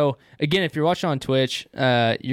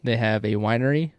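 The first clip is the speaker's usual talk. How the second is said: talking around a pipe stem; pipe in mouth. Real, not acted. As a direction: speak with a pipe clenched in teeth. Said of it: "I wanna talk really weird".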